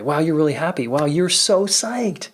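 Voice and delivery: mildly excited, rising on the second wow; sharing someone's joy. Acted. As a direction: marvel along with their happiness, drawing out the last phrase. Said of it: "or in their joy".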